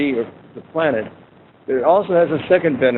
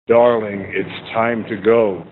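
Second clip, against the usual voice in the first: irritated husband; 5 semitones lower, much slower than usual. Retold or imitated. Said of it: "He's irritated".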